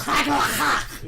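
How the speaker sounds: "Craig Lachey" in a laughing, hammed-up mock Scottish accent, slow and breathy. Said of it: "I don't think you got the accent quite right there".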